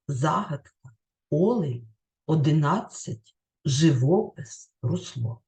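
each word distinct, stressed as ЗАгадка, Олень, одиНАдцять, жиВОпис, русЛО; word list with the stressed syllable marked in "Загадка", "олень", "одинадцять", "живопис", "русло"; demonstrated word stress. Shown as a demonstration. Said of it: "Ось так слід було поставити наголос".

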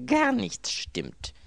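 sehr langsam, hoch und laut gestöhnt; verzweifelt. A narrator's reading. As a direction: gedehnt und gequält. Anthony stöhnend. (gequält gedehnt)

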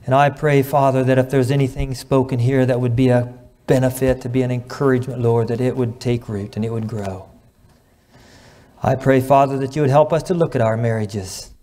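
measured, earnest public prayer; reverent prayer. Real, not acted. Preacher prays over the congregation's marriages, reverent. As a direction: address God earnestly, with pauses between phrases.

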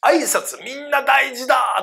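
high, slow, stretched-out declaration; hammed-up drawn-out shout; mock proclamation. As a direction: call it out like a slogan. Acting people proclaiming greetings matter.

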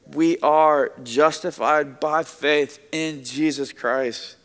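slow emphasis. Real, not acted. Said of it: "slowed creed line".

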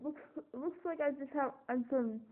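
talking around a mouthful; cheeks stuffed full. Real, not acted. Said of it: "looks like I have my wisdom teeth removed".

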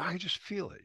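Kirk imitation. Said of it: "Kirk said".

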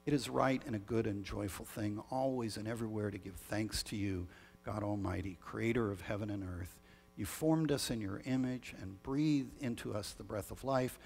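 measured, solemn prayer voice; liturgical prayer. Acted. Leads the Great Thanksgiving prayer.

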